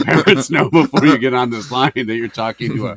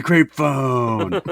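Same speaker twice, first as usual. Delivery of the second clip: creepy caller shout. Retold or imitated. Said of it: "There's a ghost behind me".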